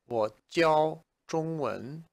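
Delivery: "我教中文" spoken slowly, each tone clear; slow model sentence. Shown as a demonstration. Teacher models the sentence for learners, slow and careful. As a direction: lay out "我教中文" word by word. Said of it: "if I want to say".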